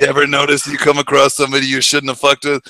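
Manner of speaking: lightly voiced Eastwood; understated menace; a hint of Eastwood; Eastwood imitation. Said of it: "the way he delivers it".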